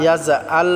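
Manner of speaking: يجعل with the j softened to a z sound; slow learner's error, z for j in يجعل; soft wrong jim. Shown as a demonstration. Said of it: "বললে হবে না".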